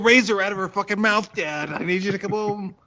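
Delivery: high, loud, fast panicked plea; hammed-up scared kid, high and loud; mock panic. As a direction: beg Dad to come home in mock terror. Kid calling dad in panic.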